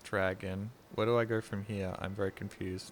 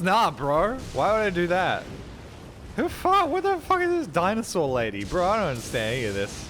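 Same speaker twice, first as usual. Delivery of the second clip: higher, louder clueless bro voice; clueless bro gamer; 8 semitones higher, 6 dB louder than usual. Pretend. Mocking a clueless streamer to chat, in a loud bro voice. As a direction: play a dumb bro who skipped the story. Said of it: "And then get people being like".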